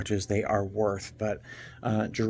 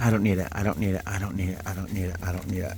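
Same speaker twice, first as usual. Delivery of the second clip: self-talk mantra; 2 semitones lower, much faster than usual. Real, not acted. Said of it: "I'm trying not to buy this bag".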